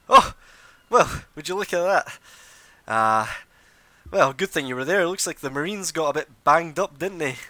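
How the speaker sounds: high, loud, smug nobleman voice; Anders the noble. Acted. GM playing the smug noble greeting the party, high and loud. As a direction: preen like a pompous young lord. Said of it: "he walks in and he goes".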